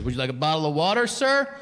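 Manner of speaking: lightly voiced chauffeur at your service; professional driver. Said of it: "all of his professionalism".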